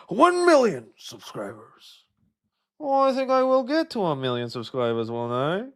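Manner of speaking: smug Reddit mod voice; nerd voice. Pretend. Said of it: "nerd voice, my Reddit, mod Redditor voice".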